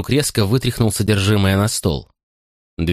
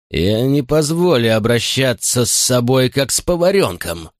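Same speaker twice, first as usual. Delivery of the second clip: raised, furious bark; furious chef; 4 semitones higher than usual. Acted. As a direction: bark it at the boy. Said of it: "рявкнул он мальчику".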